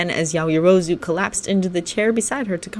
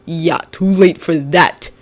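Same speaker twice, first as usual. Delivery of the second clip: glaring; 3 dB louder, slower than usual. Acted. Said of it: "Shinso glared".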